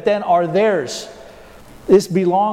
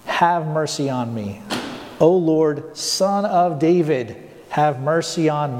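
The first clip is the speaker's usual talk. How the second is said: slow, lowered plea for mercy; mild retold crying out; slower than usual. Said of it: "crying out".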